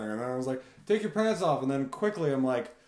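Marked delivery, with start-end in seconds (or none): 0.9-1.6 high, loud yell across the lift; mock yell. Yelling at skiers from the chairlift. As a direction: shout it up at the chairlift. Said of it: "the first thing I yelled".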